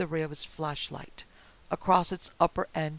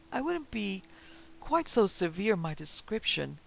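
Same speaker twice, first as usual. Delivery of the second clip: smiling; 4 semitones higher than usual. Acted. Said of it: "answered with a smile".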